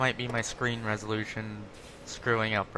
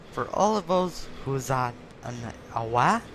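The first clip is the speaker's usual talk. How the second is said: slipping into French. Pretend. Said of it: "now I'm starting to get French there".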